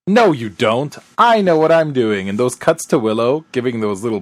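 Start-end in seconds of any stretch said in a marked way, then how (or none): 0.1-2.3 a touch of firm contradiction; lightly acted stubborn comeback; Buffy. Host replaying the classic retort to the Colonel, mildly insistent. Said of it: "And Buffy with the classic".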